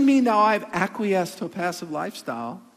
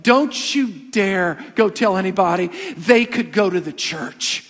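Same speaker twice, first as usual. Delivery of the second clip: slow, louder stern warning from the wife; wife's nuclear option; 5 dB louder, slower than usual. Retold or imitated. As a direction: slowly lay down a warning, don't you dare. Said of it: "She goes".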